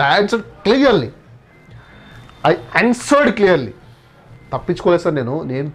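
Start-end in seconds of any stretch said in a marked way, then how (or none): 0.0-3.7 slow, every word drawn out; slow model sentence. Shown as a demonstration. Teacher modelling the sentence for students, slowly. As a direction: read it out slowly for the learners. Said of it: "సమాధానము చాలా క్లియర్గా చెప్పాను".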